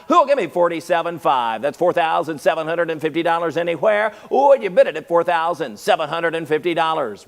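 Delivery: rapid auction call for bids; auctioneer. Acted. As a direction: keep the bids rolling, auctioneer style. Auction chant bidding.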